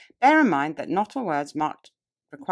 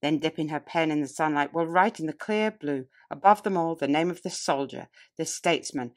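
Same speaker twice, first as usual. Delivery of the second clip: grand oration. Acted. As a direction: build each phrase like a speech to a packed hall. Declaims historic oration.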